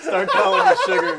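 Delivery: squeaky laughing voice. Real, not acted. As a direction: talk through high giggles. Stoned group laughing.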